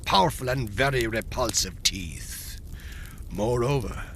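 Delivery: plain reading voice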